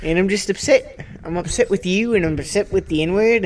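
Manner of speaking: mildly upset, put-on Australian accent. Australian character scolds co-hosts over a word, mildly upset Australian accent. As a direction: complain in a light Australian voice. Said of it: "upset Australian".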